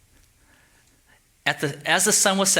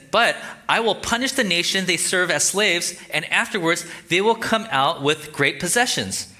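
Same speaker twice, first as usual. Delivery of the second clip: higher, emphatic reading; scripture reading; 5 semitones higher than usual. Acted. God promises Abram to punish the nation, emphatic reading. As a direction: proclaim the promise with raised pitch.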